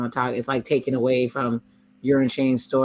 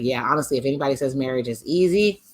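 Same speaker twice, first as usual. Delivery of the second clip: emphatic retold quote; 5 dB louder than usual. Quoting Jared on marriage, building to an emphatic burst. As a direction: lean hard into the punchline. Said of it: "And I was like".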